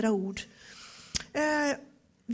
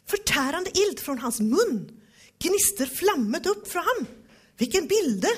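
loud, higher, thrilled by the image; excited fiery reading; 5 semitones higher, 5 dB louder than usual. Real, not acted. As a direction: proclaim the fire with awe. Vivid fire imagery, excited. (upprymd och stark)

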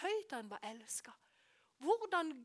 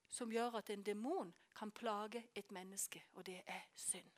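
hushed whisper; 3 semitones lower, 6 dB quieter than usual. Real, not acted. Preacher whispering to the congregation that sin gives demons power. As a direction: whisper the key truth, much softer.

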